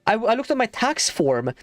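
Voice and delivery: exasperated rant. Real, not acted. Venting about being taxed.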